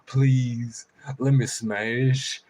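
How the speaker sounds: very slow drawn-out crow plea. Retold or imitated. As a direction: stretch every word like a crow. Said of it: "He's like".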